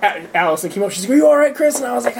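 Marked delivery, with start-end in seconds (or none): 1.1-1.8 mock concerned girl. RA asking, retold.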